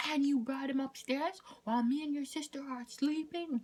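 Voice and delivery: very high scandalised scolding; imitating outraged mom. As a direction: pitch it way up like an appalled mother. Mom's outraged question, retold.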